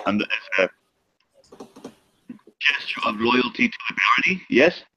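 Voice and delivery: put-on formal address in a light German accent. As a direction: address them with a German accent, ending on a questioning rise. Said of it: "Sorry, it's a German accent".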